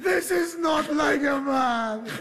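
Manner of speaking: ashamed crying. Acted. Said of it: "I am ashamed of myself".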